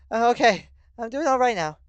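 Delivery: high, loud, breathless reassurance; panting. A narrator's reading. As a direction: speak between heavy pants. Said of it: "she says this in between heavy pants and coughs".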